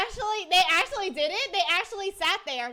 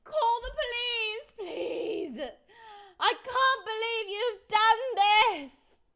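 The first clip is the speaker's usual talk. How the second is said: hammed-up tearful plea, slow at the end; mock crying plea; 3 semitones higher, slower than usual. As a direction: beg for the police in fake tears.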